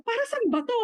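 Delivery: mataas na nagtatakang tanong. Retold or imitated. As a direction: parang litong nagtatanong, mataas. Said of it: "Sabi ko". (mataas na tanong ng pagtataka)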